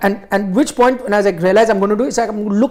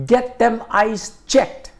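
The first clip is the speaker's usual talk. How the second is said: put-on West Indian accent; 3 semitones higher, slower than usual. Fan telling Gavaskar to check his eyes, slow West Indian accent. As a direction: imitate the burly West Indian's Caribbean accent. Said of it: "So he says".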